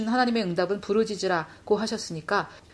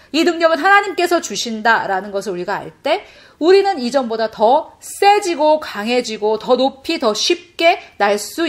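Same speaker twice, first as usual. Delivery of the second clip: loud, rousing sermon voice; forceful preaching; 3 semitones higher, 6 dB louder than usual. Real, not acted. Preacher rallying the congregation to resist Satan's attacks, forceful preaching.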